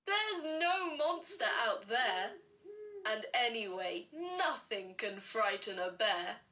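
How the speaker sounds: a hint of a laughing father dropping low; lightly voiced daddy bear. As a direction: chuckle it, falling low by the end. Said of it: "Daddy laughed".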